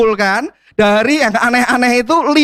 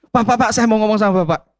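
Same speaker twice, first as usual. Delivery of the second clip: woman's plea; 2 semitones higher, faster than usual. Retold or imitated. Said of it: "ada seorang ibu deketin saya".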